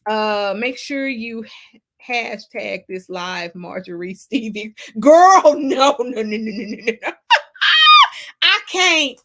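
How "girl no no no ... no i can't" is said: laughing. Real, not acted. Reacting to a wild comment.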